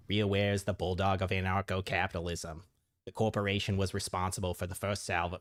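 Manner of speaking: put-on rough Kennedy-style Boston accent; JFK. Streamer demonstrates corporate blurb for viewers, imitated Boston accent. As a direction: read it like a speech in a Boston accent. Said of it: "yeah, that's more J F K".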